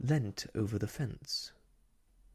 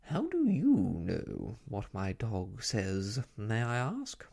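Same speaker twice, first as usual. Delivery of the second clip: haughty; 3 dB louder than usual. Acted. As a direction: look down your nose at her. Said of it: "regarded her haughtily".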